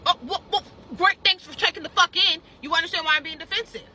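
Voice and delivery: sarcastic. Retold or imitated. Sarcastic reply to the manager.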